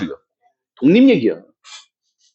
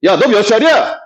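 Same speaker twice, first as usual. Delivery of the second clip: higher-pitched quarrelsome demand; angry challenge; 5 semitones higher than usual. Shown as a demonstration. Teacher acting an argument turning to age, angry challenge. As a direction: demand it as if picking a fight. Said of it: "말하다가 화나면 그러지".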